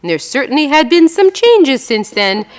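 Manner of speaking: calm reading-aloud voice; story reading. Acted. Author reading her New Yorker story to audience, measured reading.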